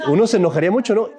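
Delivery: laughing. Real, not acted.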